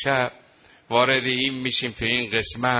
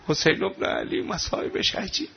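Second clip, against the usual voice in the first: hushed lament; 4 semitones higher than usual. Real, not acted. Rawzeh lament for Hussein.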